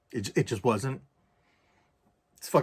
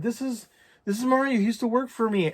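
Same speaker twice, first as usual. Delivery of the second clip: high-pitched imitation of a tipsy woman; tipsy introduction; 10 semitones higher than usual. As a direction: introduce him like a drunk ex-boss. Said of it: "a little tipsy, a little drunk".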